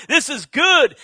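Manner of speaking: high, loud delighted exclamation; acted burst of satisfaction; elated. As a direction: revel in it, voice lifted. Voicing elation after the win.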